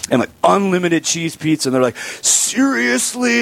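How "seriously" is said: put-on high, slow wide-eyed child's question; amazed kid. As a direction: stretch it out like a stunned six-year-old. Kids amazed by unlimited pizza.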